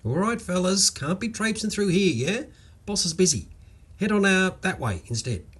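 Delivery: high, gentle Aussie coaxing of the ants; a mild, easy reassuring drawl to the ants; calm reassuring drawl. Acted. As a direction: talk them along kindly, like a patient boss. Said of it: "spoke in a calm, reassuring drawl".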